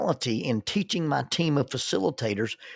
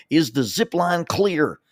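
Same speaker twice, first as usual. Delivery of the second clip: slow, high, loud shout down the line; yelled call; 5 semitones higher, 6 dB louder, slower than usual. Retold or imitated. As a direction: call it out to people far below. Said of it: "And he would yell".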